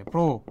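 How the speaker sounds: প্রো said as "pro" with a clear o vowel; প্রো with the o-kar vowel; o-kar sound. Shown as a demonstration. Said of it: "ওকারের মতো হয়েছে".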